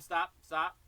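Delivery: sharp, loud call to stop. Real, not acted. Teacher stopping the drummer mid-bar, loud and firm. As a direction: cut the student off over the drums. Teacher halts student's playing.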